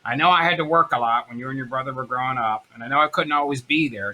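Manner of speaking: lightly imitated earnest mom; a hint of mom's voice; smoker mother's voice. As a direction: confide as a mother to her son. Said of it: "I always wanna do her voice".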